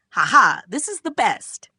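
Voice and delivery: loud ha-ha, then high delight; hammed-up triumphant laugh; mock gloating. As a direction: crow with put-on glee. Acted gloating laugh in story.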